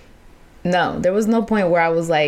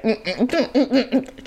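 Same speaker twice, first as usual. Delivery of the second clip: holding back sobs; 5 semitones higher than usual. Retold or imitated. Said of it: "So I'm here holding it back".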